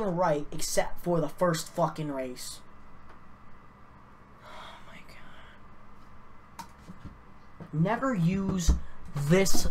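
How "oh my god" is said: hushed, voiceless sigh of despair; exasperated. Real, not acted. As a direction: breathe it out under your breath, defeated. Scoring software fails once more.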